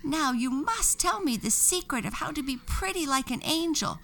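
high angry witch rant; shouting with anger. A narrator's reading. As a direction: threaten the angel furiously. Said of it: "shouted with anger".

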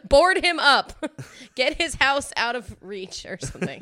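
laughing through the words. Real, not acted. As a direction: giggle while talking. Laughing at own joke.

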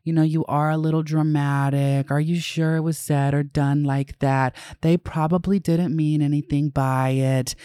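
a hint of a patronizing friend brushing it off; doubting straight people. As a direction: mildly imitate dismissive disbelief. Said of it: "this energy of".

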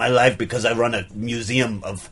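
put-on French-Austrian accent; affected accent. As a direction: artist in a muddled European accent. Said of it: "affect an accent".

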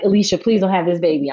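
quick imitation of a panicking friend; panicked plea. Co-host begging her not to have the baby, mock panic. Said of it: "she's panicking".

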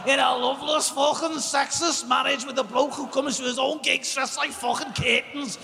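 mock wife rant. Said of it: "she says".

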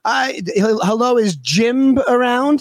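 slow, halting prank-caller voice; put-on prank caller asking the old lady for Jim; Saul from a prank-call comedy act. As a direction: drag it out like a dopey prank caller. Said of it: "my go-to for that voice, was Saul from a prank-call comedy act".

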